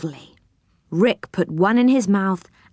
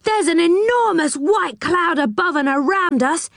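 put-on high, wondering child's voice; high-pitched amazement; astonished; 10 semitones higher than usual. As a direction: marvel aloud, pitched high throughout. Rick astonished by the cloud.

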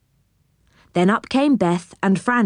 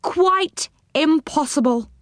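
gloomy; 7 semitones higher than usual. A narrator's reading. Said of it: "said Moonface gloomily".

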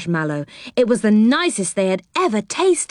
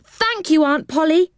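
put-on much higher, delighted child's voice; joyful thanks; 9 semitones higher than usual. A narrator's reading. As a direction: gush your thanks like a happy child.

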